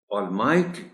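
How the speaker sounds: Almighty with the M syllable stressed. Shown as a demonstration. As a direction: model Almighty with weight on M. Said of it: "Stress is on M".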